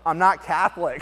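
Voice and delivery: friend's joking answer, laughing; laughing reply. Retold or imitated. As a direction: joke delivered through a laugh. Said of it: "she goes".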